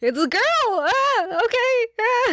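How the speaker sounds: put-on very high, squeaky, cracking pubescent boy voice. Reacting to talk of holding a girl's hip at a dance, in an extreme Dipper Pines voice. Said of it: "a extremely Dipper Pines voice".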